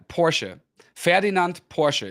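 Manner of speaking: Porsche as "POR-shuh"; German pronunciation. Shown as a demonstration. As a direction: Ferdinand Porsche said the German way, final E sounded. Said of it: "You don't pronounce the E".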